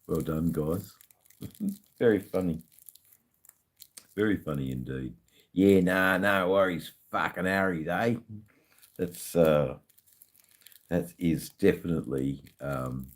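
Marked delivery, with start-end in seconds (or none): 5.5-8.1 lightly played-up Australian slang; Australian slang verse. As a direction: recite it in everyday broad Australian. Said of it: "Australian verse".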